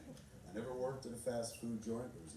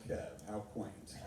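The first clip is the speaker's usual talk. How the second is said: lower, slow, unimpressed; dry dismissal; 5 semitones lower, much slower than usual. Retold or imitated. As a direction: say it with bored condescension. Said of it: "you'd be like".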